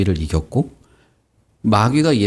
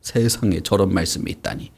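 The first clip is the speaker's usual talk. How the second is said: acted amazement. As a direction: marvel like an impressed listener. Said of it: "어떤 사람은 감탄하고".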